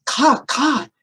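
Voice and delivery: two separate mock bird calls; pelican caw. Librarian listing animal racers for children, imitating the pelican's caw. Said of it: "consisted of the pelican".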